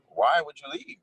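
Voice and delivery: can't believe anyone would leave; incredulous question. Retold or imitated. Asking newcomers why they left, incredulous. Asking people who moved away.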